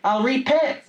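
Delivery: high, quick mock-British chirp; a hint of a twee English host; posh British mock. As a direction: lightly play a cheery Brit offering crumpets. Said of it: "Instead of".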